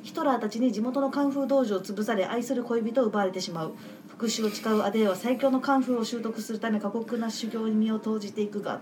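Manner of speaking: measured synopsis narration; あらすじの読み上げ. Real, not acted. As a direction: read a film synopsis aloud, evenly paced. (あらすじを読み上げる調子)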